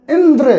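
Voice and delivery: इंद्र with the final द्र pushed hard; stress on द्र. Shown as a demonstration. Teacher showing pupils a stressed syllable, stress on द्र in इंद्र. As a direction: lean on the द्र at the end of इंद्र. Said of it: "इस द्र पर जो है ना".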